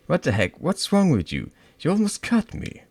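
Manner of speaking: high, loud frightened cries; terrified. Acted. Girl nearly cut by the knife, frightened. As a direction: shaken after the near miss.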